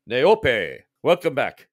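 a hint of a deep, booming host. Ranch elder Kakayangu welcoming Neope back, lightly booming. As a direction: lightly boom the welcome like a big man. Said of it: "a deeper booming voice".

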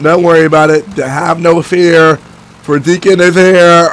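slow, drawn-out hero catchphrase; stretched mock-heroic boast. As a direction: playfully announce yourself as the hero. Mock-heroic line answering radio call.

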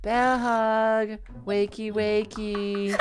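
gentle wake-up. Acted. Gently waking a sleeping bear.

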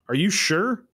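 high-pitched mock disbelief; sceptical teacher. Teacher doubting a pupil's denial, high mock scepticism. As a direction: press the doubt with a high lilt, as if to a child.

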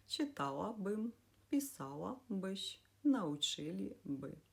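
each example as one word, «читала бим», «писала биш», «научили би», stressed third syllable from end. Shown as a demonstration. Teacher lists conditional examples, stressing third from end in «читала бим», «писала биш», «научили би». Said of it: "коли наголос падає на третій склад".

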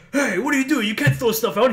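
imitated indignant confrontation; indignant neighbor. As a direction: act out an outraged neighbor calling someone out. Acted neighbour objecting to dumped waste.

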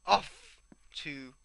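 hammy, badly faked French accent; poor French accent. Gamer setting off on the adventure, poor French accent. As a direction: put on a bad French accent. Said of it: "in a very poor French accent".

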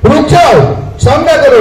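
loud commanding call to stop; shouted call. Retold or imitated. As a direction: call out sharply to make him halt. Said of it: "જોરથી બૂમ પાડી સ્વામીજીને".

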